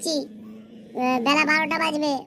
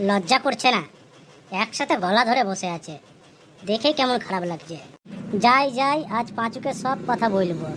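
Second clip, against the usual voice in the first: disapproving onlooker; 4 semitones lower than usual. Acted. Onlooker scolds the couple.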